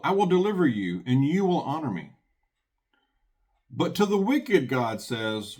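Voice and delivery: preaching the psalm with gravity; scripture reading. Acted. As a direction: proclaim God's words to the flock. Reads a psalm aloud.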